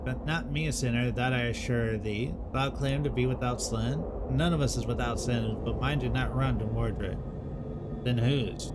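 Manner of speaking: lightly voiced solemn forest folk, old-fashioned speech; a hint of a grave medieval woodcutter questioning trees; archaic woodland dialogue. Voices archaic tree characters in dialogue.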